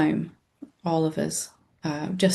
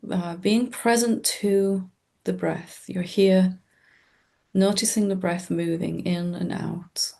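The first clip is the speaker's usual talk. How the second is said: calm meditation guide with long, restful pauses; guided meditation. Acted. Teacher leading listeners into presence with the breath, calm guided-meditation voice. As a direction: guide listeners gently, leaving space between short phrases.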